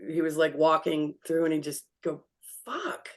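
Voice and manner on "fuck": higher, quiet stunned swear; a hint of the dazed dad muttering; dad swearing softly in shock; dad's muttered curse. Dad cursing while walking through.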